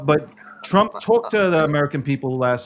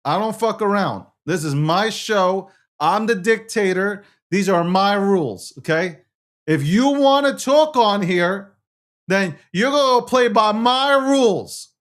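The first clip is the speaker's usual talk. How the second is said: boastful mock strongman; dictator bluster. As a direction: play the self-declared dictator. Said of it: "Okay, Donald J. Trump".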